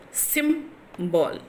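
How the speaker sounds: "symbol" split as SYM, pause, bol; "symbol" in two pieces, falling on the second; syllable by syllable. Shown as a demonstration. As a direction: break "symbol" into two separate beats. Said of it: "the stress is in the first syllable".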